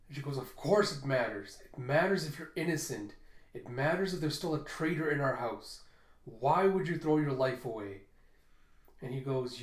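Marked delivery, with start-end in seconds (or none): 0.4-8.0 insistent protest. Retold or imitated. Arguing against his false confession.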